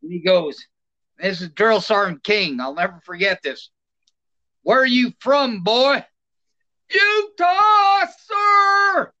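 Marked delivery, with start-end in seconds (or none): 4.6-6.0 drill sergeant voice. Retold or imitated. Drill sergeant barks at recruit. 6.9-9.1 high, loud shouted answer; recruit's shout. Retold or imitated. Scared recruit shouting to sergeant.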